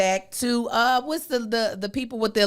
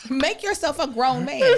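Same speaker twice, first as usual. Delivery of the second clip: shout; 3 semitones higher than usual. Real, not acted. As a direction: yell it out. Joking shout at friend.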